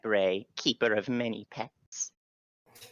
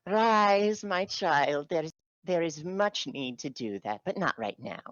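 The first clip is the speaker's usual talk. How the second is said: warm regal boom; 5 semitones higher than usual. Acted. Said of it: "Titania's like".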